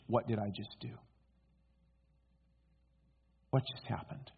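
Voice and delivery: low, hushed self-questioning; stunned realization. Acted. Peter suddenly pulled out of the situation, asking himself, stunned. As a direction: drop to a near whisper in dawning shock.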